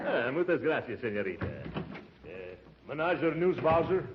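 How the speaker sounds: hammed-up Brazilian accent. Disguised uncle greeting the receptionist, mock Brazilian accent. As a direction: play the suave Brazilian baritone. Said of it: "don't forget your Brazilian accent".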